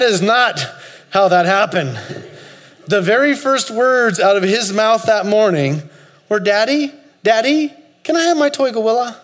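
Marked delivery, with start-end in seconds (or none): 6.4-9.2 put-on higher, pleading little-boy voice with a laugh; eager toddler. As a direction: beg like a kid wanting his toy. Toddler asks for toy gorilla.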